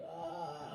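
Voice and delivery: soft mock sobbing "Ah"; imitated crying wail. Storyteller imitating both crying on the phone, mock wail. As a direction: fake a weepy wail, quietly. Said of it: "we were both crying".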